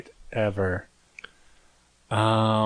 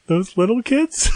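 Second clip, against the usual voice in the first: mom's incredulous question; 11 semitones higher, 3 dB louder than usual. Retold or imitated. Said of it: "She goes".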